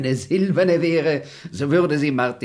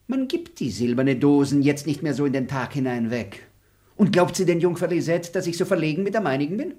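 mocking parody; 2 semitones higher than usual. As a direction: throw her words back at her. Parrots her own words back.

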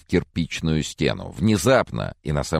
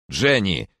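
stern shout; 5 semitones higher than usual. Acted. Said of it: "сурово прикрикнул он".

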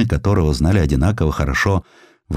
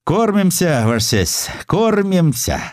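high, drawn-out humble merchant voice; simple-hearted reply; 11 semitones higher, slower than usual. A narrator's reading. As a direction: answer the governor with folksy, bowing simplicity. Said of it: "отвечал прямодушно". (простодушно, высоким голосом купца)

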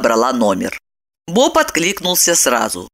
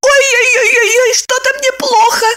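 high, louder wailing of a wife playing sick; feigned sickness; 4 dB louder than usual. A narrator's reading. Wife pretends to feel sick in front of husband, high wail. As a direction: moan high and pitiful, putting it on.

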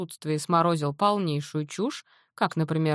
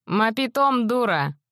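Мапитом дура thrown out higher and louder, a bit slower; exclaiming; 6 semitones higher, 4 dB louder than usual. Acted. Natan protesting that she calls herself a fool, exclaiming. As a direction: cry it out in mock outrage. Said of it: "воскликнул субъект".

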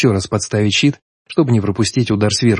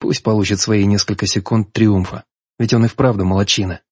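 ordinary delivery, nothing marked

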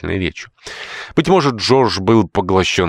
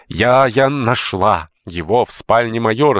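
embarrassed; 6 semitones higher, 4 dB louder, slower than usual. Acted. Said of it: "смущённо ответила Маунтин".

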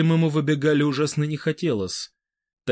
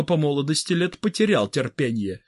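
ordinary delivery, nothing marked

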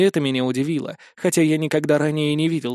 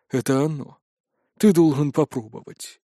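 wolf voice. Acted. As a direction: speak as a wise wolf, hushed. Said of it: "человеческим голосом волк".

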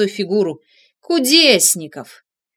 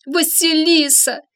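drawn-out, higher pleading call of her name; plaintive call; 8 semitones higher, slower than usual. A narrator's reading. Detective calls his fallen assistant, slow and plaintive. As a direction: call her slowly, more pitiful. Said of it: "ещё жалобней позвал Кудесников".

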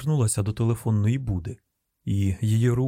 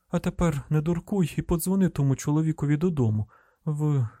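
lightly voiced young agent, higher pitch; higher voice of a trainee thinking aloud; inner pep talk; 4 semitones higher than usual. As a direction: talk yourself into it, pitched a little up.

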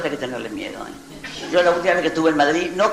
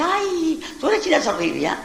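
put-on young girl asking; 11 semitones higher, slower than usual. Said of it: "una chica jovencita y me dice".

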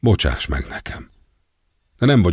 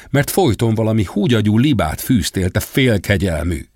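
bitter shouting; 2 semitones higher than usual. Acted. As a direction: spit the insults at him. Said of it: "Hagynak egyre hangosabban kiabálni".

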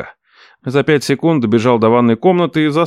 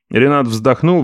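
ordinary delivery, nothing marked

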